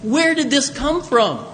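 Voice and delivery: put-on a neighbor marveling at the hometown kid; astonished neighbor. Villager to villager, marveling at Jesus, quick and amazed. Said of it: "people are saying".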